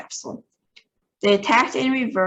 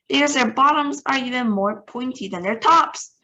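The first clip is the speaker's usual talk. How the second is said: shouting; 5 semitones higher, 3 dB louder than usual. Acted. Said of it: "shouted Shruxworth".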